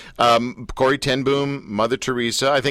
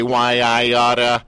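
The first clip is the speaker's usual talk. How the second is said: 1950s tough guy; 3 dB louder, slower than usual. Retold or imitated. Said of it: "we also don't say".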